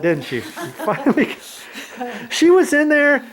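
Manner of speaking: teasing while laughing. Real, not acted. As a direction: giggle through the words.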